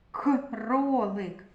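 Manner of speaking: Кролик with the к split off at the start; separated first К. Shown as a demonstration. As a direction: detach the opening к, then say -ролик.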